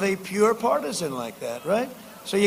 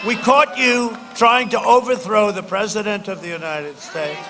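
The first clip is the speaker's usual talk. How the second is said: retold angry retort. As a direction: fling the accusation. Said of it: "I said".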